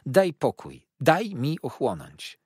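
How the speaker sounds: high, loud urgent plea; crying out. A narrator's reading. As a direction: cry out to hold the child back. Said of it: "zawołała ciotka".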